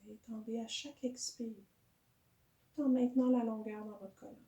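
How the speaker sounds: calm yoga guidance with long pauses; guided meditation. Real, not acted. Teacher settling a yoga class into breathing, calm guided meditation. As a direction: guide the breath gently, unhurried.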